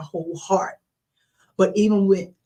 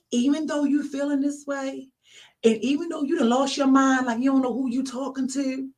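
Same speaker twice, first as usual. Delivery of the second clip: higher, level, patient voice; understanding reply, gently higher; retold inner voice of God; 4 semitones higher than usual. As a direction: lightly voice God answering in a higher pitch. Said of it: "could hear this voice".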